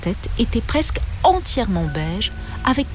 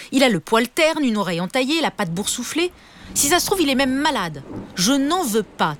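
high-pitched, disdainful tirade; cross mum voicing her disgust; angry mother; 6 semitones higher than usual. A narrator's reading. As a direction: pile on the complaints, pitch raised. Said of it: "était vraiment très en colère".

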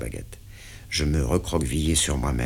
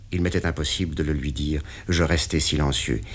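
ordinary delivery, nothing marked

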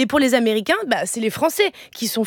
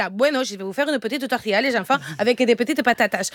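put-on obliging mum slipping into a Spanish accent. Mother gives in to her children, Spanish accent. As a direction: offer dinner with a playful Spanish accent. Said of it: "avec l'accent".

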